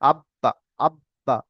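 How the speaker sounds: আব্বা with the ب held, then released in a short echo; qalqalah bounce. Shown as a demonstration. Teacher showing students qalqalah, আব্বা with a bouncing b. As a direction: close on the b of আব্বা, then let it bounce lightly. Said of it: "একটু বা এর মতো উচ্চারণ হবে".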